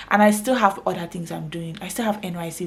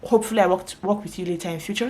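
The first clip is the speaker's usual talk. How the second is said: polite client; faster than usual. Retold or imitated. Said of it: "some of my clients that are very polite".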